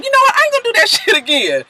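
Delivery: high, fast squeaky mock voice; squeaky parody of swearing off a mistake; mock vow. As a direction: toss it off in a high, quick put-on voice with a laugh. Mock resolve, quoted self-lecture.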